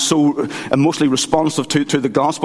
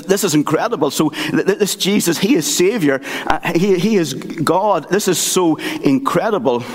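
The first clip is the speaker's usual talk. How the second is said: awed excitement; 5 semitones higher than usual. Retold or imitated. Captain discovers Jesus, joyful.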